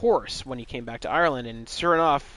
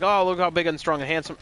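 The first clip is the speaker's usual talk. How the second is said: higher show-off hero quote; mock boasting; 5 semitones higher, 4 dB louder than usual. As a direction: lightly ham up a vain hero's bragging. Hero shows off carrying stone.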